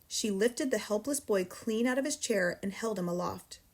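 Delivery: ordinary delivery, nothing marked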